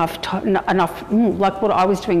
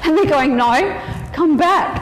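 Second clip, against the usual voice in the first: high laughing retelling; 11 semitones higher than usual. Real, not acted. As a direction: laugh through the words. Laughing while retelling being pulled.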